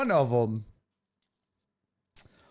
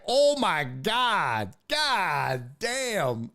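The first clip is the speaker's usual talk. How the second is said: crowd aghast; much slower than usual. Retold or imitated. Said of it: "And the crowd was like".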